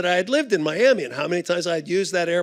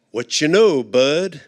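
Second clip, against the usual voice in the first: slap-on-the-back hello, low; friendly Bud greeting; 4 semitones lower than usual. Retold or imitated. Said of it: "he called Bud".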